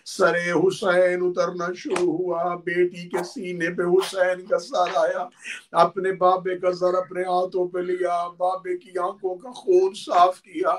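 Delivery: lamenting preacher voice; mourning recitation. Acted. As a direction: tell the martyrdom as a lament to the mourners. Majlis lament narration of Karbala.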